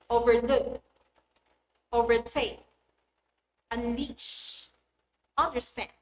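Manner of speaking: overLOOK, overTAKE, unLEASH, underSTAND; root-word stress. Shown as a demonstration. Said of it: "strongly stressed on the root word".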